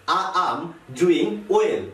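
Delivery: I AM as 'aam', pause, then DOING WELL; joined I am. Shown as a demonstration. Teacher repeats it for learners, joined then paused. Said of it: "যে জিনিসটি শোনা যাচ্ছে এরকম".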